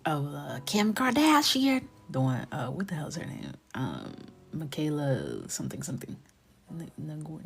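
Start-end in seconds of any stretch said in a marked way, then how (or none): 0.7-1.8 high, slow whispered parody of Kim Kardashian; mock Kim Kardashian. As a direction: breathe the name out high and slow like a vocal-fry influencer. Mock name-drop voice.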